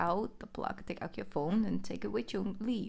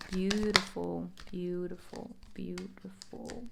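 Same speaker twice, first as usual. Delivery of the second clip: savouring; slower than usual. Real, not acted. Savouring a card spread.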